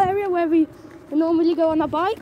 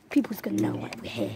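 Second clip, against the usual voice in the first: hushed whisper, barely voiced; 8 semitones lower, 8 dB quieter, faster than usual. Real, not acted. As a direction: whisper so nobody hears. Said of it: "We need to be a bit quiet".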